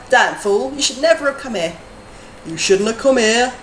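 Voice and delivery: a hammed-up hint of a Skyrim attacker; Skyrim enemy taunt. Streamer quoting an enemy from Skyrim, mock threat. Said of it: "Skyrim flashbacks".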